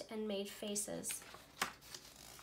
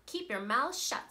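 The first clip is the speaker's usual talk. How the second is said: harsh order; 3 semitones higher, 5 dB louder than usual. Acted. Strict teacher orders silence.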